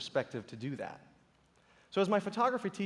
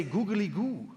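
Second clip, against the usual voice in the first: mock rooster call; 2 semitones higher, slower than usual. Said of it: "So I found out in Vietnam".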